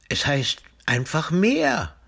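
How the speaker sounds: high, slow proclamation; announcing. A narrator's reading. Timmy naming his sea after thinking it over, proudly announcing. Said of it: "verkündet er schließlich".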